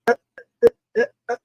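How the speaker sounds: mock garbled bad connection; high gargling imitation of broken audio; imitated underwater audio. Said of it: "like that".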